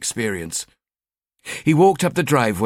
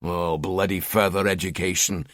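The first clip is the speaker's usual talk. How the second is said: moaning; 4 semitones lower, 3 dB quieter than usual. Acted. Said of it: "he moaned".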